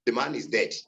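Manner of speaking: "the man is dead" falling to the end; "dead" said on a falling tune. Shown as a demonstration. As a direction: drop the pitch on "dead". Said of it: "with foreign tune".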